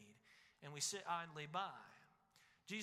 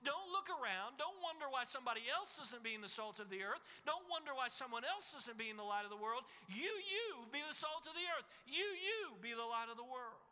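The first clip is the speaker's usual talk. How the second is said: voicing Jesus; 4 semitones higher than usual. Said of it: "Jesus was saying in this moment".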